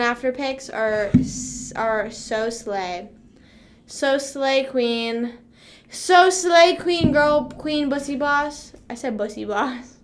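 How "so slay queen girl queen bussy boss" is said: higher, louder hype voice; hyped-up cheer. Pretend. Streamer hyping up own pics, playful cheer. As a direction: gush it like cheering on a queen.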